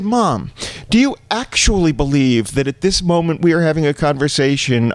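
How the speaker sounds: incredulous and exasperated; exasperated disbelief. Retold or imitated. Exasperated son, raised pitch.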